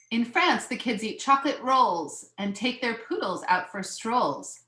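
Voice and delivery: measured picture-book reading; lilting read-aloud of a children's book; story narration. A narrator's reading.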